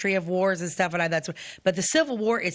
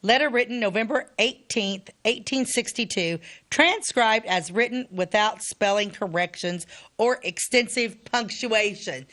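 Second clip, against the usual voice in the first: careful, formal reading of an introduction; reading aloud; 3 semitones higher, slower than usual. Acted. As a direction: read it out in measured phrases. Reads introduction to the letter.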